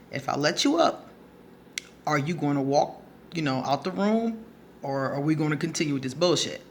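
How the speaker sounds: unruffled, matter-of-fact retold question; cool and composed. Speaker to pinned girlfriend offering release, cool and composed. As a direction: put the terms to them coolly. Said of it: "I was very cool with it".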